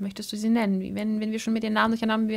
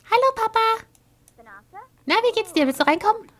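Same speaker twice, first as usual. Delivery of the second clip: high, sing-song greeting to papa; sweet wife voice; 12 semitones higher, faster than usual. Acted. Wife Sim greeting her husband, high and sweet. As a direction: greet him in a much higher, sweet voice.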